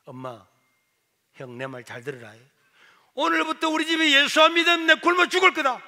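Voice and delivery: rising to a loud, high declaration; proclamation. Retold or imitated. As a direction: declare it like a vow. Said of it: "저도 모르게 선포를 했어요". (엄마와 형에게 굶겠다고 크게 선포)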